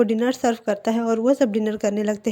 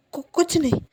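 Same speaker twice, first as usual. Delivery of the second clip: nervous stammer; 3 semitones higher than usual. Acted. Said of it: "तुम इतने डर क्यों रहे".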